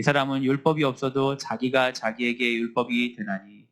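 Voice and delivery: level, even-toned Bible reading; scripture reading. Acted. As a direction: read the verses aloud evenly, on a low steady pitch. Reads scripture aloud to congregation.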